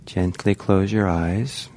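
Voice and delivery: calm, unhurried meditation guiding with long pauses; guided meditation. Real, not acted. Teacher guiding meditators to relax into the body, calm guided meditation. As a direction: ease listeners gently into relaxing, leaving space between phrases.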